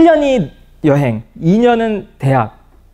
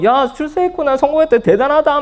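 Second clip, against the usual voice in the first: mock cheering; 9 semitones higher than usual. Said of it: "막 이렇게 난리가 나는 거예요".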